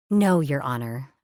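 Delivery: slow, dry sarcasm; deadpan it, unimpressed. Acted. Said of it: "I said dryly".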